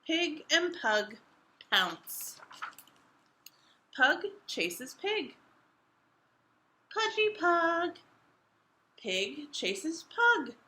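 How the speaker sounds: expressive picture book reading; reading to children. A narrator's reading. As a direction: read it out to young listeners.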